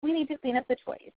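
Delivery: firm and falling, no question; firm command. Shown as a demonstration. Caregiver telling a child to tidy up, firm. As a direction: say it kindly but with no doubt. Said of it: "can just be shifted to".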